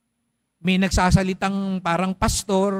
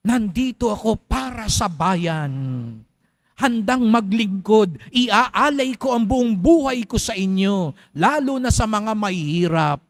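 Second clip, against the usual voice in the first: mock politician speech. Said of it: "Mga ganyan yung mga speech".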